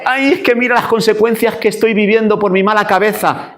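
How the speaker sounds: high, whiny self-pitying wail; hammed-up tearful complaint; mock lament. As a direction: moan theatrically about your own troubles. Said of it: "Si yo lloro porque".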